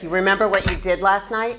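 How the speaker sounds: lightly voiced, weighted question; ominous question. Friend asking after a dark blackout, a touch ominous. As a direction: ask it like bad news. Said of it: "And now it's like".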